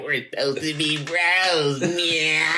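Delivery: slow, lightly put-on nerdy white guy voice; lightly mock it like the corniest white guy; whitest guy. Mocking how brother retells his line, nerdy white guy voice. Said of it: "like the whitest guy".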